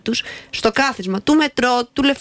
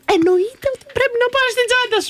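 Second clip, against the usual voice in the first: high-pitched comic indignation; exasperated, pitch shooting way up; indignant outburst; 12 semitones higher than usual. Real, not acted. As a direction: protest as if it were blindingly obvious. Indignant rant about bags on seats.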